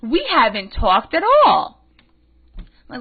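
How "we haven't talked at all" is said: much higher, louder, whiny mock innocence; mock bewildered friend. Friend protesting to him in the theater, whiny mock voice. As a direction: play the clueless friend, squeaky and pleading. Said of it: "her friend is saying to me".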